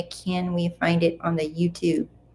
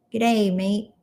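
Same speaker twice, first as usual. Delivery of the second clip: lighter Aussie greeting; a hint of Australian on "Good day, mate"; Australian accent; 2 semitones higher than usual. Streamer repeating the greeting to viewers, light Australian accent. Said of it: "You're a natural Aussie".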